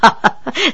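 soft performed laugh; obliging chuckle. A narrator's reading. Princess humouring the Dowager, soft obliging chuckle. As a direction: chuckle along agreeably. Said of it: "急忙附和着说".

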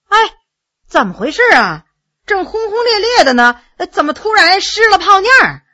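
lightly acted bafflement, rising to a high pitch; puzzled protest. A narrator's reading. Courtier to a storyteller who stopped short, mildly indignant puzzlement.

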